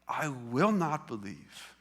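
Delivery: slow, deliberate refusal; mildly defiant, each word weighed out. Retold or imitated. Preacher quotes Thomas refusing to believe, defiant. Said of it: "this is a defiant response".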